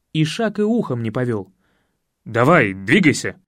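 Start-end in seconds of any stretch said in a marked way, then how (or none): 2.2-3.4 велит ослу. Acted. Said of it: "велел я".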